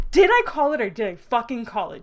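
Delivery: loud triumphant gloat. Real, not acted. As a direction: crow over being right. Gloating about prediction.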